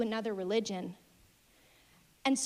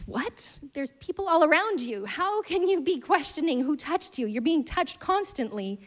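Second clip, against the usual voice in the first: mock the baffled crowd of followers; confused disbelief; 4 semitones higher than usual. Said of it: "confused and questioning".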